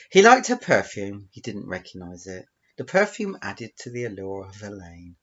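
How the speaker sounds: emphatic openings, settling at phrase ends; story narration. Acted. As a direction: tell it as a read-aloud tale. Reads out own story.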